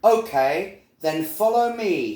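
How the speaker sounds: a hint of birdlike tweeting; lightly tweeted bird voice. A narrator's reading. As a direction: call out lightly like a helpful bird. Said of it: "he tweeted".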